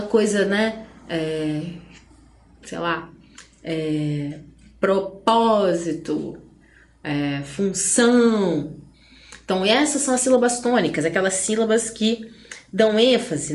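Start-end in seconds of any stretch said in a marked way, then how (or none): 4.8-6.4 slow "propósito", stressed syllable drawn out. Shown as a demonstration. Teacher giving students an example of tônica, "propósito" with PÓ drawn out. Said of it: "em tônica". 7.4-8.8 slow "função", final syllable stretched long; stressed syllable. Shown as a demonstration. Teacher showing students what tônica means, "função" with a long final ÇÃO. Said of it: "em tônica".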